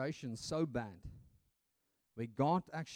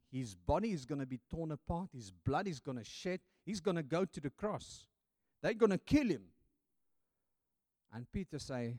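normal talking voice

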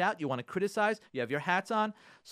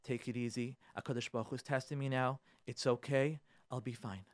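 calming self-talk; 6 semitones lower, 8 dB quieter than usual. Shown as a demonstration. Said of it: "Say to yourself".

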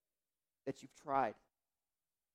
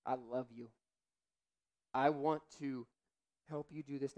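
gentle voice of God. Retold or imitated. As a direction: speak as a loving father to his child. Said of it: "I think he'll say to you".

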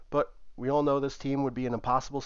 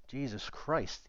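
slow, softer disbelieving groan; exasperated; 2 semitones higher, 5 dB quieter, slower than usual. Acted. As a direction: drag it out in annoyance. Cam exasperated.

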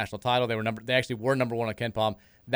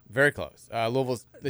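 whispering. Real, not acted. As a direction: say it under the breath. Confirms near miss.

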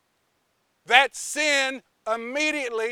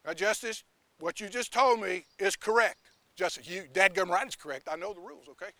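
much softer, lower, steadying; calm wisdom; 4 semitones lower, 6 dB quieter, faster than usual. Acted. Wisdom calming Justice, much softer and lower. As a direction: settle everyone down gently. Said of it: "Wisdom goes".

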